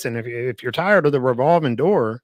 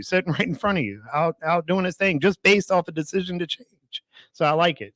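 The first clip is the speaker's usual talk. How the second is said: losing voice. Real, not acted. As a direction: voice giving out. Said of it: "Sorry, I lost my voice".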